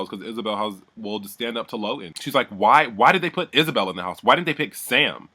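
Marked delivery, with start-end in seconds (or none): 2.5-5.3 mock complaining. Ellie griping about Isabel being in the house, mock complaining. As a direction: imitate an indignant complainer.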